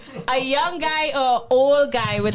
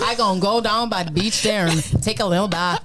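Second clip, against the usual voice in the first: bad Bajan accent; 2 semitones lower than usual. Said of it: "That's such a horrible accent".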